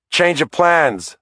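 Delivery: father yelling a change of plans to the cabbie; yelled. A narrator's reading. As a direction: shout it at the cabbie. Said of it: "I yelled".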